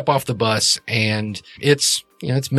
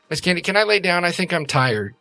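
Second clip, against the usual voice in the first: put-on high small-girl voice; little girl; 6 semitones higher than usual. Little girl asking Miss Candy to lie down, high. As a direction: ask it like a sleepy little girl. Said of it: "little girl who says".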